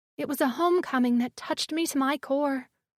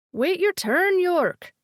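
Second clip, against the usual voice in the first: squabbling creature voice; 4 semitones higher, 3 dB louder, slower than usual. A narrator's reading. Small Hillbob bickering.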